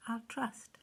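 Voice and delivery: put-on lively rhyming read-aloud for children; story reading. A narrator's reading. Reading a Bible rhyme to children, storyteller voice. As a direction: read it like a bedtime rhyme to kids.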